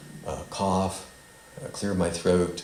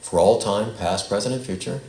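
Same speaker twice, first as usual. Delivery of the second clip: slow, loud, phrase by phrase; slow recital; 6 dB louder than usual. Shown as a demonstration. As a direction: say it slowly for them to repeat. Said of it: "and I'll say it slowly".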